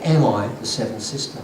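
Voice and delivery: "Am I the seventh sister" with the pitch rising at the end; questioning. Retold or imitated. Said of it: "she said it as a question".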